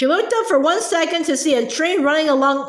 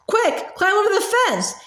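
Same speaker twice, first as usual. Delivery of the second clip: wild yell; 6 semitones higher than usual. Acted. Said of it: "yelled Agatha wildly".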